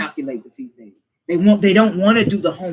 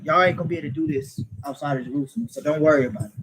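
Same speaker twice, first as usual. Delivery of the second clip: mock reassurance; 9 semitones lower, 5 dB quieter, faster than usual. Imagined dismissive words put in Christ's mouth.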